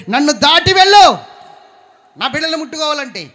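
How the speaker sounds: high, loud shout, the last line rushed; God's thundering warning. Acted. God shouting at Pharaoh to keep off his children, thundering. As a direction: roar it like a guardian blocking the way.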